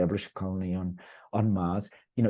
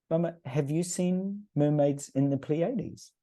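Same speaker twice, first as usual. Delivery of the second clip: put-on high, slow, knowing child's question; spring the next question like a clever eight-year-old; imitating his young daughter; 9 semitones higher, slower than usual. Daughter cross-examining her mother, high slow childlike voice.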